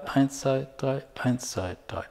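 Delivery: the count eins zwei drei sinks to a soft near-silent murmur; fading count. Shown as a demonstration. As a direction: let the counting fade away to almost nothing. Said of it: "aber immer die ersten drei".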